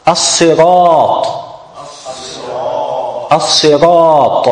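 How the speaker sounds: as-sirat slow, with heavy ra and alif. Shown as a demonstration. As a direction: say As-sirat with a full, thick a. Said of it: "It's mufakhama here".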